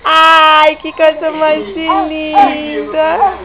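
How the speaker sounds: slow, near crying with love; tearful tender. Real, not acted. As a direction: gush slowly, almost in tears. Mother moved watching baby dance. (emocionada, quase chorando)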